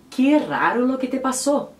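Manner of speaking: "que raro" in a Spanish accent; Spanish example. Shown as a demonstration. Teacher giving viewers a Spanish example, Spanish accent. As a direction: say it like a Spanish speaker. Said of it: "Por exemplo".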